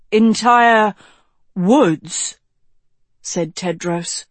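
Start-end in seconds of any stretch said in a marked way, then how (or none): 0.1-2.4 puzzled echo. Acted. Tedros echoes wizard in disbelief.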